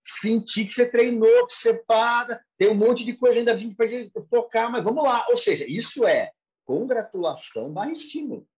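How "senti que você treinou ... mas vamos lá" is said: higher-pitched acted teacher feedback; encouraging teacher. Teacher to a student who trained but still errs, encouraging. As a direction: voice a mildly approving coach. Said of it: "o seu professor vai te falar".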